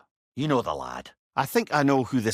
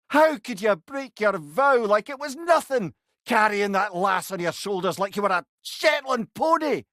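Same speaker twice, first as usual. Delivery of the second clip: a hint of an indignant young monk, higher; accusing monk; 7 semitones higher than usual. Mimir retelling the monk's rebuke, mildly indignant. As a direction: lightly voice the scolding monk.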